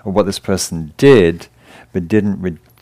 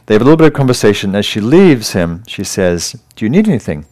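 louder story reading, English voice; 4 dB louder than usual. A narrator's reading. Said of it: "in an English voice as opposed to an American voice".

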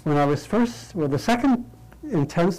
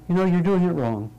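higher, kindly, no judgment in it; benevolently; 5 semitones higher than usual. Shown as a demonstration. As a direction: point out the mistake with goodwill. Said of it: "someone saying benevolently".

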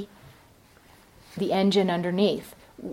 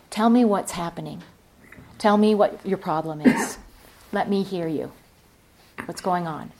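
softer, gentle, understanding questions; calm compassionate voice. Retold or imitated. Kind librarian calming an angry patron, quiet and compassionate. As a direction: coax him gently to open up. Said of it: "in a quiet voice ... a calm voice ... compassionate voice".

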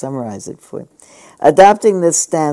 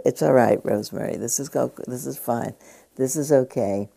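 soothing mother. Retold or imitated. Mother soothing infant, soft.

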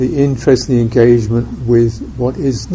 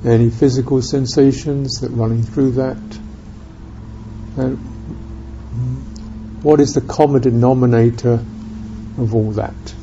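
unhurried meditation guidance with long silences; calm, spacious guiding, leaving room after each phrase; guided meditation; 3 semitones lower, 7 dB quieter than usual. Real, not acted. Teacher guiding listeners to experience presence in the body, guided meditation.

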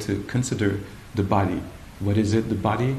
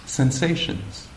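slow, drawn-out, a touch higher; slow intoning; 4 semitones higher, slower than usual. Retold or imitated. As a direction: stretch the word Sensations out slowly. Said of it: "he says something like".

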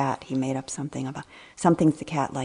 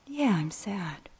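whispered admission; 4 semitones higher, 5 dB quieter, slower than usual. Retold or imitated. Grandma answers grandson's question.

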